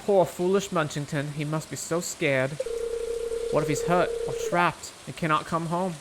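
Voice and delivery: put-on a weak, admittedly shaky Southern Belle accent. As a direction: lightly voice a fretting Southern Belle. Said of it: "It is supposed to be a Southern Belle accent".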